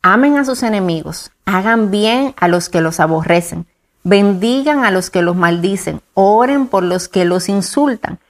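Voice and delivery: slow, measured Bible reading, each phrase set apart; solemn scripture reading. Acted. Co-host reads the Gospel passage aloud before discussing it, slow and solemn. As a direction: read the verses slowly, as sacred text.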